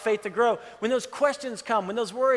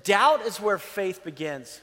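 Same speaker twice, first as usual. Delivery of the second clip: dictated; 2 semitones lower, slower than usual. Shown as a demonstration. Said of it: "if you're taking notes".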